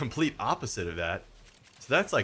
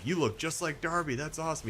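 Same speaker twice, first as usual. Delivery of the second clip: higher-pitched retold compliment to a child; encouraging; 8 semitones higher than usual. Streamer retelling praise of kid's face paint, encouraging high voice. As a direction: cheer a young fan on, pitched up.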